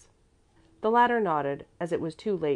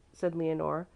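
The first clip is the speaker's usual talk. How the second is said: plain reading voice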